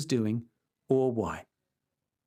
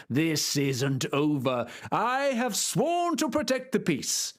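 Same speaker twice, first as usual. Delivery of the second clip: put-on defiant old knight; 3 semitones higher than usual. Don Quixote's voice.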